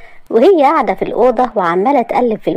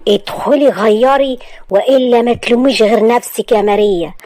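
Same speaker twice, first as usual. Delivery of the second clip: sharp order; 3 semitones higher than usual. Acted. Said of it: "قال لها بحدة".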